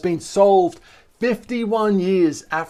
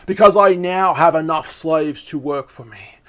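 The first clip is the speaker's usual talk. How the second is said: serial killer voice; 2 semitones lower than usual. Acted. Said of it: "put on a serial killer voice".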